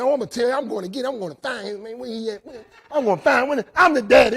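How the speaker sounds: retold furious father; mock angry dad. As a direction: play the outraged daddy. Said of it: "I said".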